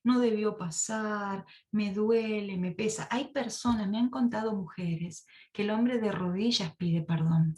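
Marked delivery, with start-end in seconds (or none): 0.0-3.1 slow pleading apology. Retold or imitated. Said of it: "Es cuando la persona dice".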